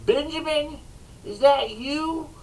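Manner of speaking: high called-out question; calling across the yard to Benjamin; shouted call. Retold or imitated. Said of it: "he shouted over at Benjamin".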